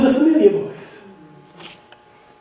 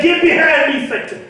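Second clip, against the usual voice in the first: higher, ringing rebuke with Satan cut short; Jesus rebuking Peter, delivered as a raised sermon line; preached rebuke; 3 semitones higher than usual. Retold or imitated. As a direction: turn and command it out with preacher's force.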